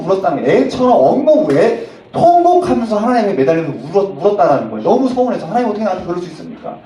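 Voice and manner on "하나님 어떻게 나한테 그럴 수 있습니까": loud, anguished mock wail of a pastor; hammed-up tearful complaint to God; crying out to God. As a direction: plead like a hurt child, voice raised. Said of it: "하나님 앞에 아이처럼 엉엉 울었다".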